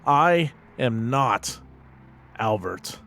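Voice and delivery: slow, deliberate in-character declaration; resolute investigator. Acted. Investigator telling Oscar who he really is, resolute. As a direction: state it firmly, word by word. Player speaks as Ernest Anderson.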